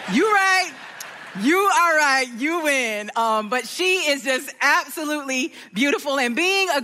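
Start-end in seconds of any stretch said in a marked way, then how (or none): 0.1-3.1 playful surrender. Real, not acted. Admitting to Nana she was right, laughing. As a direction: concede to grandma with a grin. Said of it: "all right, Nana".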